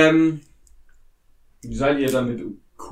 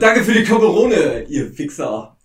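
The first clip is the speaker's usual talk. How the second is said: spöttisch; 4 dB louder than usual. Acted. GM voices mocking NPC.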